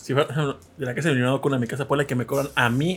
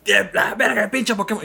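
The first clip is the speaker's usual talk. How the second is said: mock taunt; 8 semitones higher, 4 dB louder, slower than usual. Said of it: "Y el vato".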